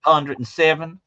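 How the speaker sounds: high, lightly voiced Texas local; a hint of a Texas drawl; Texan voice. Shown as a demonstration. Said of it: "do that voice again".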